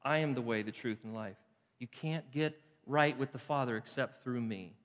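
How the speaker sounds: gently understated, softening as it goes; quiet, simple, loving. Acted. Preacher quoting Jesus to the congregation, quiet and loving. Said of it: "very quietly, very simply, very lovingly says".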